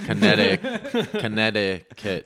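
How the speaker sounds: CONNECTICUT drawn out, laughing; exaggerated pronunciation. Shown as a demonstration. Local joking about dropped T's, drawn-out laughing CONNECTICUT. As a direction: stretch CONNECTICUT out in separate syllables, amused.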